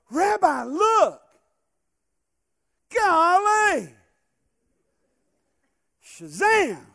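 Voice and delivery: high, loud hick amazement; hammed-up country "Golly!"; Gomer Pyle-style exclaim. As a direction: gawk like Gomer at the withered tree. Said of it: "A little Andy Griffith, uh, reference".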